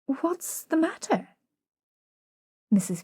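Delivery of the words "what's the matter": patiently. A narrator's reading.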